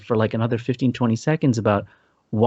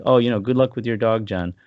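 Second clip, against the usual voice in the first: sincere. Shown as a demonstration. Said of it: "I meant it sincerely".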